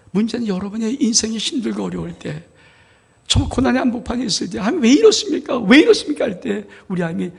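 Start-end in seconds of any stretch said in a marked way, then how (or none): 4.6-6.2 loud, high cry to God; anguished cry. Acted. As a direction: cry out in distress. Believer cries out to God. (높고 크게 부르짖는 외침)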